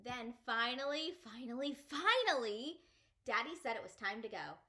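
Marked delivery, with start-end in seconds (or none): 0.0-2.8 building excitement. Acted. Child at last allowed to leave for Lucille's. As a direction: build to a burst of relief. Long wait finally over.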